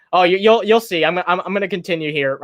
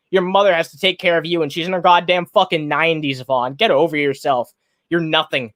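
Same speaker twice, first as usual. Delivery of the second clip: getting irate. Real, not acted. Streamer berating Vaughn over his kids, angry rant. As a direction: lay into him, building real anger. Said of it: "man, I'm, I'm getting irate".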